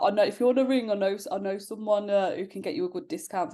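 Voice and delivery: giggling while voicing dad's offer; laughing as she quotes dad; laughing through it. Fiancée laughs while quoting Dad's ring discount offer.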